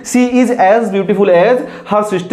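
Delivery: slow dictation. Shown as a demonstration. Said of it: "teacher reads sentence slowly".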